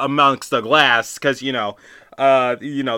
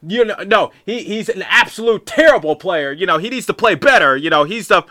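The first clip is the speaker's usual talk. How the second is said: raised, higher heckling rant; mock screaming; 5 semitones higher than usual. Fan ranting at a parent in the stands, raised and higher. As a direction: rant at the parent, half-yelled. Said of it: "like, screaming".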